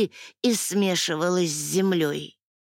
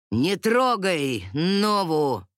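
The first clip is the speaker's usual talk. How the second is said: goddess voice; 3 semitones lower, slower than usual. Acted. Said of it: "произнёс божественный голос".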